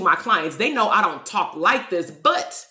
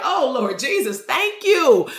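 grateful exclamation; 4 semitones higher, slower than usual. Acted. Imagined relieved prayer of thanks.

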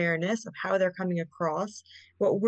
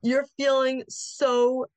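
slow naming feeling; 4 semitones higher, 3 dB louder, much slower than usual. Shown as a demonstration.

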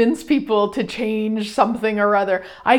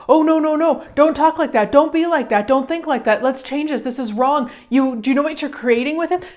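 mock urgent pleading, a bit higher; hammed-up frantic rescuer talking a friend out of it; imitating a pushy fixer; 4 semitones higher than usual. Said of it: "most of us jump in and go".

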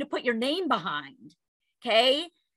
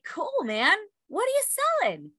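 much higher playful question; asking son; 10 semitones higher than usual. Retold or imitated. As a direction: lift the voice high on what are you. Mom voicing herself to son.

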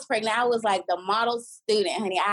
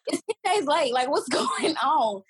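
high-pitched mock panic to her suitemates; panicked retelling; 4 semitones higher than usual. Telling suitemates about a late period, mock panic. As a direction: pitch it up, alarmed and rushed. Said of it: "I'm like".

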